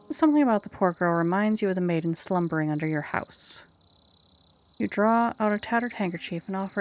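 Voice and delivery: even storybook narration voice; story narration. A narrator's reading. Narrator setting the lakeside scene for the player, steady storytelling. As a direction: read it like a storyteller.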